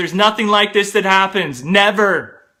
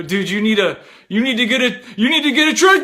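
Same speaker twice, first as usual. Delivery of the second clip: climbing higher and louder toward a strained yell; rising urgent plea; 4 semitones higher, 3 dB louder, faster than usual. Retold or imitated. Patient to optometrist right before vomiting, strained rising yell. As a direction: blurt it out as the nausea peaks.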